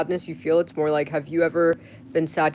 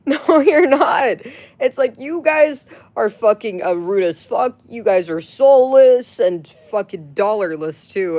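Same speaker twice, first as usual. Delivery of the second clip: furious shout; 6 semitones higher, 8 dB louder than usual. Real, not acted. Ranting at broke commenters.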